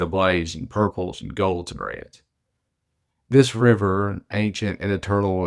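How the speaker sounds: measured, lyrical reading of her own prose poem; poetic reading. Acted. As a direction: author reading her piece aloud, unhurried. Reads her own written piece.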